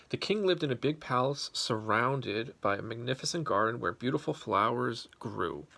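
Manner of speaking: gentle storybook reading; story narration. A narrator's reading. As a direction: read it like a bedtime story. Reads story to children.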